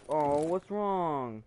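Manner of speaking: lightly voiced concerned little cousin, drawn out slowly; cousin's concern. Little cousin asks what's wrong after upset, imitated concern. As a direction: imitate a child's slow, cooing question.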